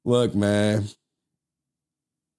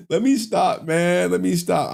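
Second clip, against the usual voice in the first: laughing stop; 6 semitones higher than usual. Real, not acted.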